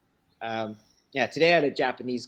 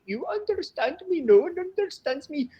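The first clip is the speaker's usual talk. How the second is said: high mock Indian accent complaining; Indian student impression; 3 dB louder than usual. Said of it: "it is funny when they say".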